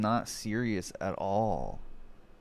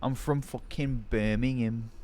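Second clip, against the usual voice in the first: Brummie accent. Shown as a demonstration. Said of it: "You ate the Birmingham accent".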